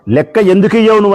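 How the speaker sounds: firm demand. Retold or imitated. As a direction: act out the councillor demanding the money back. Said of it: "అని గట్టిగా మాట్లాడినందుకు".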